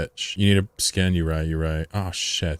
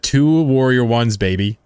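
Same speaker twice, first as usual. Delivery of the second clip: loud, slow, drawn-out brag; excited gloat; 4 semitones higher, 5 dB louder, slower than usual. Real, not acted. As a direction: stretch it out proudly. Gloating over ship fit.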